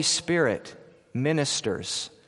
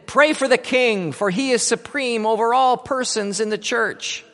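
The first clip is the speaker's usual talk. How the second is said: commanding; 6 semitones higher than usual. Acted. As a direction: order her like a soldier.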